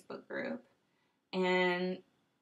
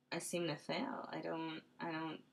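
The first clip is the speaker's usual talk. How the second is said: usual speaking voice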